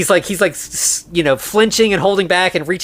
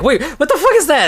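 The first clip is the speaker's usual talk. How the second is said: high-pitched, laughing imitation of shock; startled squeal, played for laughs; mock freak-out; 12 semitones higher, 3 dB louder than usual. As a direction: blurt it out in comic alarm. John freaks out seeing the monster.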